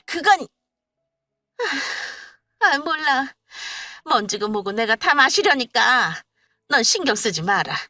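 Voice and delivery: put-on high, loud irritated old woman; mother-in-law cornered and snappish; flustered brush-off. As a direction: wave it off in a huff.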